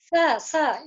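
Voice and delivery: स pushed out with a puff of air; स as a dental hiss, then "uh"; forceful dental S. Shown as a demonstration. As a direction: sound out स with slight effort, air blown outward. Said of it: "इसको बोलने में थोड़ा सा बल लग रहा है".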